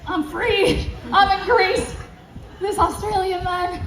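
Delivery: retold burst of excitement; excited. Woman retells celebrating freedom in Greece, excited. Acts out her tipsy excitement.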